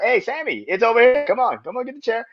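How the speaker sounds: high, loud hurried coaxing; eager urging. Retold or imitated. Heyman urging Sami on.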